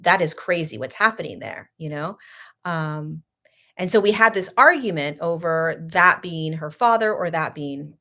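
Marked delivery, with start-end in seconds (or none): 0.0-1.7 sarcastic. Retold or imitated. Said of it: "I was sarcastic".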